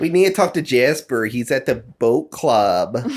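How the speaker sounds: put-on Midwest accent.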